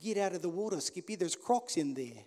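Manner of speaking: a light, half-hearted attempt at an Aussie accent; mock Aussie accent. American preacher joking to the congregation, faintly faking an Aussie accent. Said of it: "I try. I'll give it a go".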